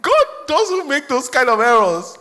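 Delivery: rising to a shout; emphatic preaching. Real, not acted. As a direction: drive it home to the church.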